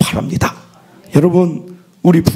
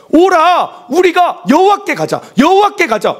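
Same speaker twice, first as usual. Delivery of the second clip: proclaiming scripture; 11 semitones higher than usual. Acted. Preacher reading Hosea's call to the congregation, rousing. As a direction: call the people back to God.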